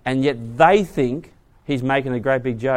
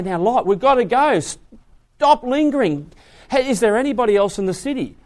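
lightly acted urging, pitched higher; a raised, pressing voice; urgent angels; 6 semitones higher than usual. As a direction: hurry him along. Acted angels urging Lot to leave.

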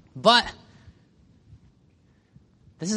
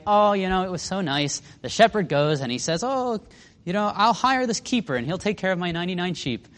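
mock cutesy; 5 semitones higher than usual. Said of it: "try and make this story all cutesy".

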